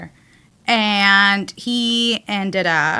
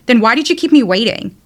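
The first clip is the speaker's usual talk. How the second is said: louder, mildly imitated angry yell; retold yell; 5 dB louder than usual. Telling Salma how he yelled at her, retold yell. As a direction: raise your voice to imitate his yelling. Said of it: "He literally yelled and said".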